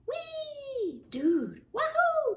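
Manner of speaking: high, loud joyful yelps; gleeful whoops. Acted. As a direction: squeal with fun. Friends whoop while playing.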